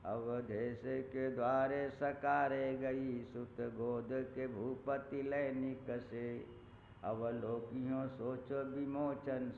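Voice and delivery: slow, drawn-out verse recital; poem recitation. Acted. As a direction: recite each line slowly, savouring it. Recites Tulsidas verse slowly. (धीमे स्वर में कविता पाठ)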